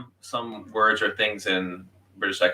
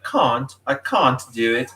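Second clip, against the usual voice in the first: British "can't" with a long ah, pitched higher; British accent; 4 semitones higher, slower than usual. Retold or imitated. Describing a half-American family's odd words, mock British accent. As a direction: imitate British English, drawing out the vowel in "can't". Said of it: "sometimes they'll say a few words like".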